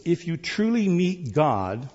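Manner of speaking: "truly meet God" drawn out with emphasis; stress on truly. Real, not acted. Preacher reading his note to church, "truly" firmly emphasized. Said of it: "I emphasize the word truly meet God".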